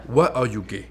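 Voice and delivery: put-on light African accent on the question. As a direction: put on a mild African accent, interviewer style. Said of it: "I'll do my African accent".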